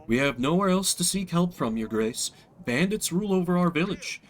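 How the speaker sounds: a lightly voiced humble peasant begging; pleading peasant. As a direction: beg the king for help, meek.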